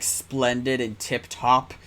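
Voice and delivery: slow mock British accent. Streamer mocking American-written British lines, slow mock British accent. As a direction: ham up the British slang like a fake Brit. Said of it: "Americans pretending to be British".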